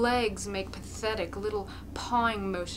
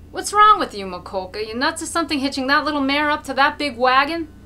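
mocking shout; 7 semitones higher, 11 dB louder than usual. A narrator's reading. Crowd mocks Mokolka.

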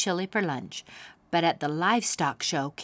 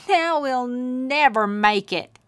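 mock wail; 6 semitones higher, 5 dB louder, slower than usual. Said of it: "he wailed".

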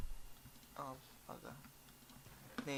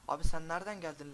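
startled yell; 3 semitones higher, 10 dB louder than usual. Real, not acted. Yelling at mob again.

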